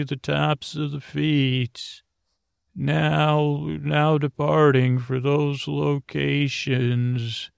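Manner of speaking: lightly voiced conductor calling stops, slow; mock conductor. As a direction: read the stops like a gentle train announcement. Uncle announces train stops.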